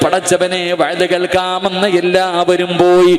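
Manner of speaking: loud, sing-song sermon cadence; full-force preaching. Acted. Preacher telling Nafeesa's story to the women, loud sing-song preaching.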